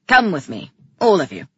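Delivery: loud command to the room; ordering. A narrator's reading. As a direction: order everyone along as king. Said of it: "Calyx ordered".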